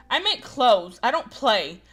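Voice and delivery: firm, insulted correction with heavy stress. Acted. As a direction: bite out each word, offended. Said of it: "I stress the words".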